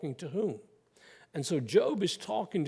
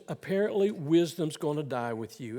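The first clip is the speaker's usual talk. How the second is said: sarcastic. Retold or imitated. Preacher voicing Job mocking his friends, sarcastic. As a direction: needle them with a mock compliment. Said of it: "Can you hear the sarcasm there?".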